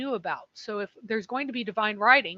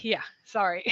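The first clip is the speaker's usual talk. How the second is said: tired whispered apology with a laugh; sleep deprived. Real, not acted. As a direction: sound drained and sleepy. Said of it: "I am so sleep deprived right now".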